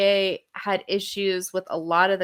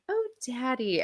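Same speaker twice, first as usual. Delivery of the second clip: soft, higher-pitched pouty little plea; 4 semitones higher, 6 dB quieter than usual. Retold or imitated. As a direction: imitate a pouting daughter, softly. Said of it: "making a pouty face and going".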